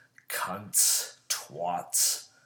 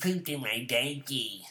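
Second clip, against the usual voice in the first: crybaby quote; 2 semitones higher than usual. Acted. Host faking a birthday quote from opponents, mock wailing. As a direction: imitate a bawling baby. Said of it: "Here's a quote from them".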